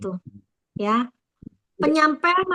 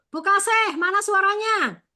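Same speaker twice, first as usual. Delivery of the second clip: pitched-up call for an answer; memanggil absen; 5 semitones higher than usual. Real, not acted. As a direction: call out to someone in the group, high. Calling on a team member to answer. (memanggil dengan nada tinggi)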